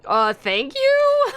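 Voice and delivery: confused high slow thanks; puzzled, pitch shooting up; surprised. Real, not acted. Awkward reply to compliment.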